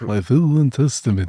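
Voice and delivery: mock-German warlock voice; put-on German accent on a solemn phrase; Creon's German accent. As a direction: imitate a German accent, "will" becoming "vill". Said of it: "like, a German accent".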